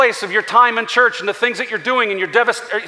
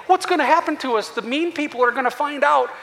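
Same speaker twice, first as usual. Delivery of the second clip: high-pitched, put-on worried whine; laid-on-thick helpless complaint; mock whining; 6 semitones higher than usual. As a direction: whine it like someone gone to pieces. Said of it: "he's whining to him".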